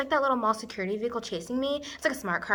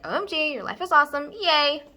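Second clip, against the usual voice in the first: gushing imagined best friend, high and louder; a pop singer; 5 semitones higher, 5 dB louder than usual. Acted. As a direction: squeal it like a thrilled pop star. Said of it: "and she'll be like".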